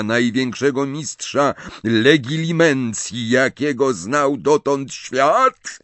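a hint of Snape, calm and mocking; Snape's voice. Snape answers Bellatrix, voiced.

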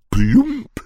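high, sudden imitated plop; splash-down plop. A narrator's reading. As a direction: drop a bright little "plump" as the landing. Sound of a soft landing.

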